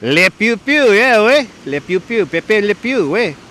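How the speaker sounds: high, put-on cartoon creature voice; Pokemon voice. Showing a viewer his Pokemon voice, playful cartoon. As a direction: chirp it out like a cartoon character. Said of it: "my Pokemon voice".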